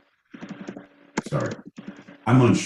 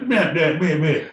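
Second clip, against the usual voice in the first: mock mumbling; 8 semitones higher than usual. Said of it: "If you were just like".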